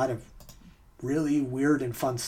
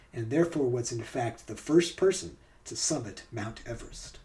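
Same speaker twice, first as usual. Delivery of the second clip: measured scripted documentary read; story narration. Acted. Host reads a true-or-false story to players, narration.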